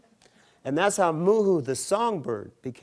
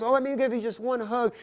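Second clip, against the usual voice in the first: giant woman insisting; 11 semitones higher, 5 dB louder than usual. Acted.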